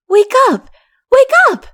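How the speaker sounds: put-on boy shouting at sleeping friends; child crying out. A narrator's reading. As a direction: shake them awake with your voice. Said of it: "he cried".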